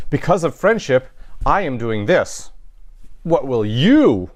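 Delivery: pointed, challenging read of the Latin; confrontational tone. Shown as a demonstration. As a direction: put the emphasis on I and you, confronting a friend. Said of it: "my tone is indicating there's some sort of a confrontation here".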